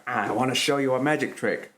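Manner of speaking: lightly voiced creepy villain; a hint of a sleazy villain; Jared Leto's Joker. Mocking a guy hitting on a woman, hint of creepy villain. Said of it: "you became Jared Leto's Joker there".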